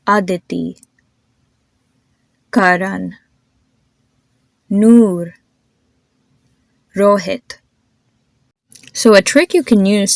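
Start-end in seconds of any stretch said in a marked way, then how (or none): 0.1-7.6 "Aditi", "Karan", "Noor", "Rohit" with tongue behind front teeth; soft Indian consonants. Shown as a demonstration. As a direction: model each name, from "Aditi" to "Rohit", with light consonants. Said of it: "keep your tongue to the backside".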